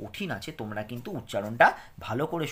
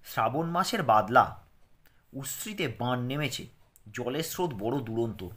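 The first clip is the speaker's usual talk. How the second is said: clear, careful lesson reading for pupils; reading aloud; 4 dB louder than usual. Acted. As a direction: read it out slowly for children to follow. Reads lesson text.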